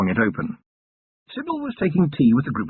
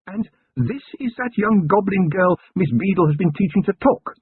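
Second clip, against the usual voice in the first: higher, refined lady's voice, curious; Lady Sybil voice; 9 semitones higher than usual. A narrator's reading. Wife questioning her husband about the goblin girl, higher refined lady voice. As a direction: play the poised lady of the house asking.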